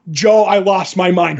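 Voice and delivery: bursting out, shouting with real excitement; a fan losing it over a favourite moment; excited shout. Real, not acted. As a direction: let it burst out, overwhelmed by the scene. Host gushing over the scene.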